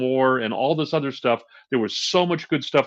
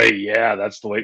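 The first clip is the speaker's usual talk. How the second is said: put-on old Jewish Brooklyn accent; 3 semitones lower than usual. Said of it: "I'm going old Jewish voice".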